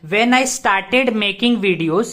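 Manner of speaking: "when I started making videos" read out very slowly; teacher reading the sentence slowly; slow dictation. Shown as a demonstration. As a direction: dictate the whole phrase slowly. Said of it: "videos".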